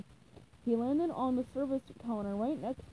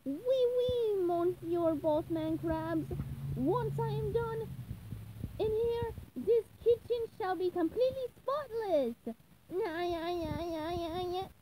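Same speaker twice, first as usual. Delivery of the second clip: much higher, slow mock French accent; silly French accent; 7 semitones higher, slower than usual. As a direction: play the French waiter, hammed-up. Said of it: "SpongeBob answered in a French accent".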